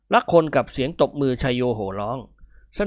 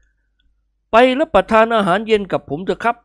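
higher, slow, earnest appeal; sincere invitation; 7 semitones higher, 4 dB louder, much slower than usual. Acted. Gentleman inviting a hero to dinner, sincere. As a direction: invite them wholeheartedly. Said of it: "เอ่ยปากชวนนิกรด้วยน้ำใสใจจริง".

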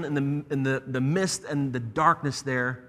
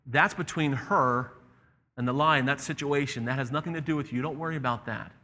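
calm lion. Acted. The lion tells the boy not to worry, calm.

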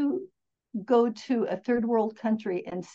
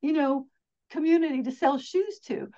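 excited salesman; 4 semitones higher, 4 dB louder than usual. Retold or imitated. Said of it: "other guy comes back and goes".

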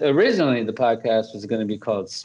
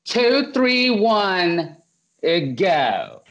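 much higher, mock-formal imitation of a nervous countdown; 8 semitones higher, much slower than usual. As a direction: mimic her trying to sound official while nervous. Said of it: "Like that".

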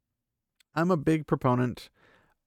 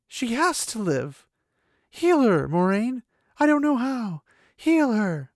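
much higher, louder desperate pleading; desperate shout; 10 semitones higher, 6 dB louder, slower than usual. Acted. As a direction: cry out begging her to heal. Rand begs Moiraine desperately.

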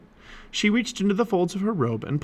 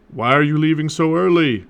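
loud, higher call from another room; dad calling out; 4 semitones higher, 7 dB louder than usual. A narrator's reading. Dad calls to his departing kids, loud questioning call. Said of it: "his dad called".

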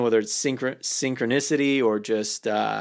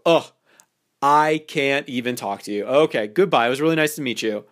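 overly dramatic takeaway; 3 dB louder than usual. Shown as a demonstration. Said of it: "a little bit more overly dramatic about it".

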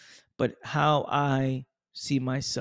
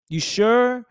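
doubtful relative; 9 semitones higher, 8 dB louder than usual. Retold or imitated. Doubter questioning him.

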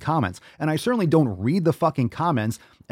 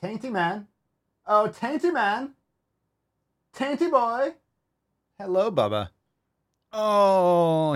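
high, cooing pet voice; 8 semitones higher, slower than usual. Real, not acted. Fussing over his pet in high baby talk.

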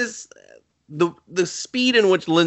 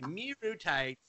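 mock hushed reassurance; 3 semitones lower, 12 dB quieter than usual.

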